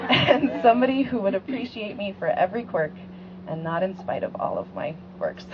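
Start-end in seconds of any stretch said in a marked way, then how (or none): 0.1-2.9 words through a giggle; laughing. Real, not acted. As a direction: laugh as you say it. Bride laughing during her vows.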